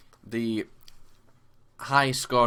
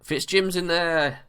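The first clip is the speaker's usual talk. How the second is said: high, loud, drawn-out goal cry; excited goal call; 12 semitones higher, 8 dB louder, slower than usual. Real, not acted. Gamer celebrating his striker's goal, thrilled. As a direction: let the goal call ring out slowly.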